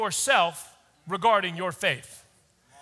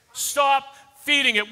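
"Stop feeding it" louder and higher; forceful repeat; 3 semitones higher, 3 dB louder than usual. Shown as a demonstration.

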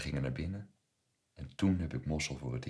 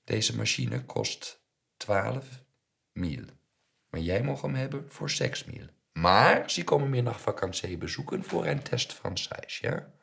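high, loud deal-making voice with pauses; haggling shopkeeper; 8 semitones higher, 9 dB louder than usual. A narrator's reading. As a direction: spin out the offer like a shrewd dealer. Voices Mossel making his offer. (sjacherende winkelier, hoog en luid)

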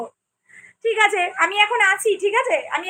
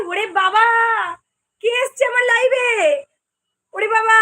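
delighted surprise; 2 semitones higher than usual. Real, not acted. Host greeting a long-missing viewer on her live, delighted surprise. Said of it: "আমি তো অবাক".

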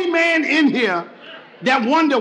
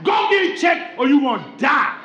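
blunt grandmother. Retold or imitated. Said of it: "grandmother ain't hold no punches".

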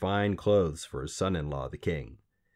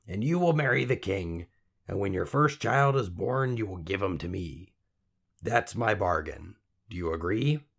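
little man voice. Acted. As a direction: strike the deal, sly and sure. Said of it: "the little man said".

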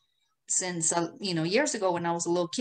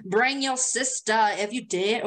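mock come-on; 2 semitones higher, slower than usual. Teasing mock pickup line.

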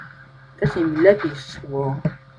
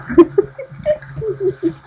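much higher half-crying laugh; high panicked laugh; 12 semitones higher, 4 dB louder than usual. Real, not acted. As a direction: laugh helplessly at the disaster. Laughs at dying Harry. (histeryczny śmiech)

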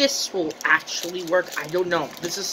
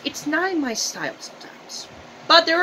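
eating while talking; 9 semitones higher than usual. Real, not acted. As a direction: hand at mouth. Seen 0: Hand repeatedly brings food to mouth while talking, bag held.

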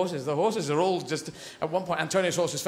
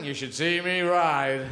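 slow, knowing innuendo; suggestive boast; slower than usual. Pretend. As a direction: let the double meaning hang. Suggestive line repeated.

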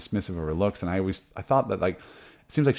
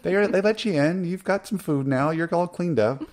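much higher, mock-exasperated Hannah voice; indignant Hannah; 10 semitones higher than usual. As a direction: play Hannah, fed up and pleading, pitched way up. Voices Hannah defending herself.

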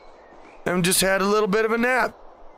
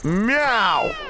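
drawn-out meow that swoops up and down; playful swooping meow; cat meow; 4 semitones higher than usual. Pretend. Playing a cat, meowing.

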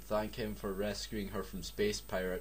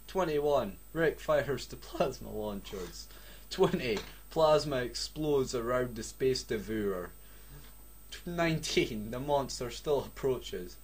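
dramatic countdown; 3 semitones higher than usual. Acted. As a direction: build the tension second by second. Dramatic countdown while reading.

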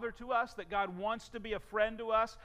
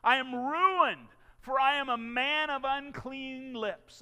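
despairing cry; 4 semitones higher, 3 dB louder than usual. Acted. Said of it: "I cried".

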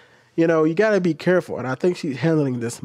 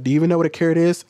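quick, slightly raised challenging question; mock belittling question, rattled off fast; frustrated snap; 3 semitones higher, much faster than usual. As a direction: fire it off as a mildly exasperated challenge. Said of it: "I'm getting frustrated, I'll be like".

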